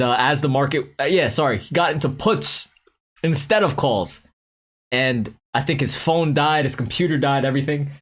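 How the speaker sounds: ordinary talk, nothing marked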